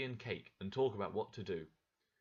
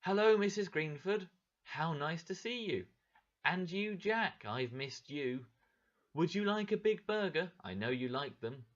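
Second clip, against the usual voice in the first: calm voice; 6 semitones higher than usual. Acted. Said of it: "said in a calm voice".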